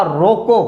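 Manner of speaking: रोको lifted at the end, then a halt; stop after रोको. Shown as a demonstration. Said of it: "और मैं रुक गया". (रोको बोलकर रुक जाना)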